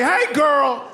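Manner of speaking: put-on high, sing-out greeting to a little girl; playful, indulgent dad; delighted approval. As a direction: coo proudly at your daughter. Dad delighted by daughter's hit.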